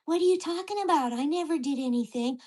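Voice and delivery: lightly voiced mock-innocent protest; a hint of put-on innocence; imitated denying neighbor. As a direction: start high, playing the wronged party. Acts neighbor's denial in retold quarrel.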